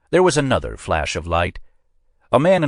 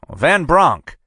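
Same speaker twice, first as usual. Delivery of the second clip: put-on much higher, flustered hedging old man; examiner hedging; 11 semitones higher, 5 dB louder than usual. A narrator's reading. Examiner hedges to the agent, high and flustered. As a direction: squirm out of it.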